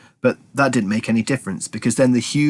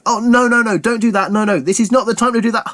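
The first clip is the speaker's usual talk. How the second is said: flustered; 11 semitones higher, 3 dB louder than usual. Acted. Morris panicking, waving it off.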